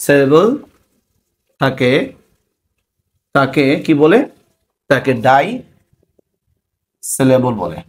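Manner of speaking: one word at a time, long gaps; dictation. Real, not acted. Teacher giving a definition for notes, dictating. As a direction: dictate slowly, pausing after each word.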